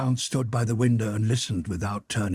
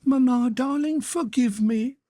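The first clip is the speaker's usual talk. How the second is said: put-on girl's voice pitched far higher, urgent; impassioned girl pleading; 14 semitones higher, 4 dB louder than usual. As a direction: beg her mother, near tears. Natasha apologising.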